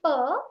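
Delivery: purr, voiceless popped p; sound demo. Shown as a demonstration. Teacher inviting students to try, purr. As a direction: purr held out for students to copy. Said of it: "If you can try".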